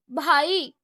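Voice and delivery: a loud, wounded little-brother cry of brother; innocent cry. Acted. Younger brother cries out innocently to his elder brother. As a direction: cry out as if badly wronged. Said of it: "معصومیت سے چیخا".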